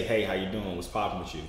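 low, soft American greeting; American accent demo. Shown as a demonstration. Coach feeding caller a line to copy, American accent demo. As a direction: model a casual American accent, quietly. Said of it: "speak in your American accent, like me".

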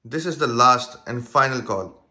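firm final call. Acted. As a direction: press it as a last warning. Repeat call to passenger.

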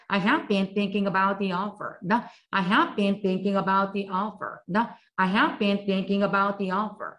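천천히 한 단어씩 따라 하게 읽기; 학생들이 따라 하도록 또렷하게; 또박또박 시범 낭독. Shown as a demonstration. Teacher models sentence for repetition. (따라 하기용 느린 시범 낭독)

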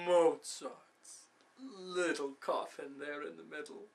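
voiced out after the hush, then easing; savouring the picture. Schemer repeating his rival's name, openly savouring it. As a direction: lean into the name, then soften.

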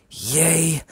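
high, bright little cheer; excited yay. Acted. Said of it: "I screamed to myself".

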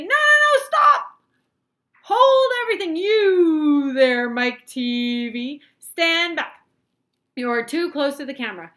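very high, very loud frantic warning; alarmed shouting. A narrator's reading. Wonka warning Mike away from the camera, alarmed shouting. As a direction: yell to halt someone in danger.

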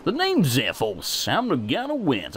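put-on half-hearted southern accent; attempted southern accent. Wind god introducing himself in an attempted southern accent. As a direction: try a southern accent, not very well. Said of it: "I should give him a southern accent".

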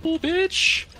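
high, loud shocked cry; startled shout. Real, not acted. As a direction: blurt it out in shock. Startled in firefight.

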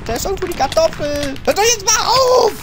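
high squealing protest; playful panic. Pretend. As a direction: shriek and whine as if being hunted in a game. Chased with the exploding potato.

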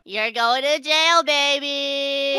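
slow, drawn-out playful threat; hammed-up villain taunt. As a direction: gloat as the mock jailer.

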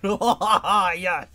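high, loud gleeful whoop; triumphant cheer. Real, not acted. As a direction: celebrate with a laugh. Finds a good item.

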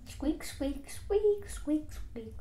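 high squeaks, peaking in the middle; squeaking noises. Acted. Reading out comic-book sound effects, high squeaking.

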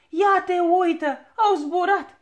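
laughing out loud, mocking; bursting out laughing. A narrator's reading. Dwarf on the fence mocking the fallen balloon, laughing. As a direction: laugh right through the words at them. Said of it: "izbucni în râs".

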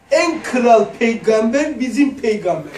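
put-on slow, slurred drunk voice with a laugh; drunk imitation. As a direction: act the drunk announcing proudly. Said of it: "Sarhoş kalktı böyle". (yavaş, ağzı dolaşık sarhoş taklidi)

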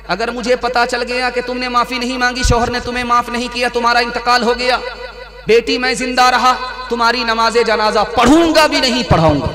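a father's warning rising to a loud climax; building stern warning. Acted. Prophet's escalating warning to daughter.

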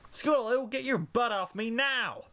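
high-pitched filly yelp; Applebloom yelp. A narrator's reading. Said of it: "Applebloom yelped".

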